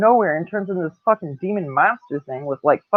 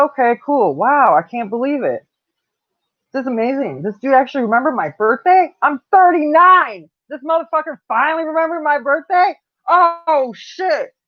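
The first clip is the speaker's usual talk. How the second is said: high, thrilled and half-sarcastic gushing; excited disbelief; 8 semitones higher than usual. Retold or imitated. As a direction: squeal it like a birthday miracle. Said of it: "I got excited".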